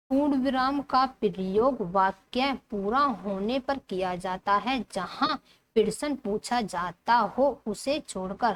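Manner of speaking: slow, deliberate reading; textbook read-aloud. Acted. Teacher reading the full stop rule, slow read-aloud. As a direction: read the rule out in measured phrases.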